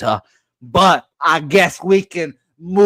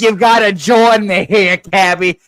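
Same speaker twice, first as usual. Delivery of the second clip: excited; 7 semitones higher, 4 dB louder than usual. Acted. Hyping up co-host on bet.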